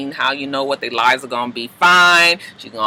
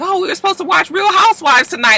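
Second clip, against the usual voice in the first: high, whiny mock pout; mock whining girlfriends; whiny friends; 3 dB louder than usual. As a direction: whine like disappointed friends. Friends whining about plans.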